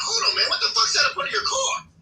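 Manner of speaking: high-pitched alarmed shout-like call. Retold or imitated. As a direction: call him to stop, startled by the leak. Others calling out at the track.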